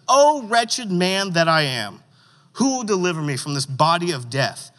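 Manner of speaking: slow, overwrought lament read aloud; milk the despair, dragging the words; a little dramatic. Acted. Preacher reading Paul's lament to the youth group, a little dramatic. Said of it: "Getting a little dramatic".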